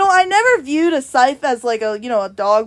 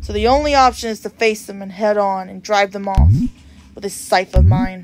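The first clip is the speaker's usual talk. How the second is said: lightly voiced, slightly lower solemn reaper; a calm grim reaper explaining the situation; reaper NPC voice; 4 semitones lower than usual. Reads reaper NPC dialogue aloud.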